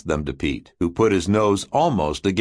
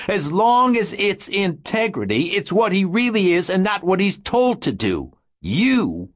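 high, booming shout; 11 semitones higher than usual. Acted. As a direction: shout it so it booms. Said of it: "a shout that boomed and echoed".

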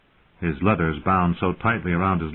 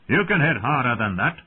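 taunting; 4 semitones higher than usual. Acted. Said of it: "Thorn taunted".

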